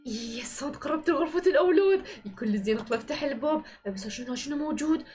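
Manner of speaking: low menacing doll voice, creeping; wicked doll hunting. Acted. Evil doll closing in on the children, low menace. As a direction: stalk the room as the villain doll.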